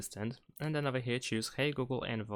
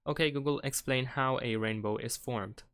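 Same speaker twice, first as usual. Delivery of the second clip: talking to voice assistant; 3 semitones higher than usual. Shown as a demonstration. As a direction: clear spoken command to phone. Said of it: "we need to say out loud the sentences".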